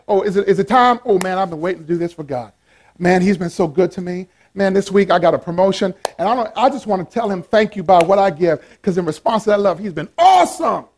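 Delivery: lightly acted eager giver; cheerful churchgoer, mildly played up; mock cheerful. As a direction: gush gratefully, building to "awesome". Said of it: "But cheerfully".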